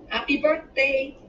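high, loud, slow sing-out; chorus it like two excited kids; drawn-out, high cheer in children's voices. A narrator's reading. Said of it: "they chorused".

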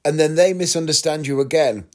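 ordinary talk

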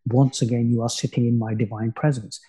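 put-on light Indian accent; hint of an Indian accent. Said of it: "I would do it in a perfect Indian accent".

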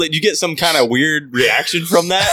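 high, loud worried questioning; concerned surprise. Retold or imitated. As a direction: ask in startled concern. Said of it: "I'm like".

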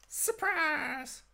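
high, gleeful announcement; gleeful shout. Acted. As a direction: yell it like a reveal.

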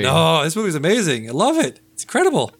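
climbing excitement; excited gushing. Real, not acted. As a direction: gush about how amazing it is. Gushing about movie.

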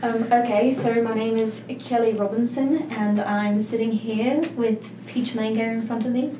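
British accent. Shown as a demonstration. Asked by co-host for a British accent, attempting one. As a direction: attempt your best British accent, softly. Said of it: "Give us your best, uh, British accent".

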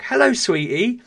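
high, loud sing-song greeting; a vet cooing at a dog, high and sing-song; baby talk to a dog. Retold or imitated. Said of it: "the vet said to my dog".

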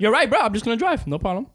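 retold buck-up to himself; acted compliance. Acted giving in to the phone pep talk.

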